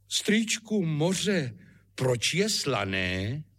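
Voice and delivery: mildly voiced child asking uncle; curious boy. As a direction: ask it like a nagging little boy. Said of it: "pořád otázky jako".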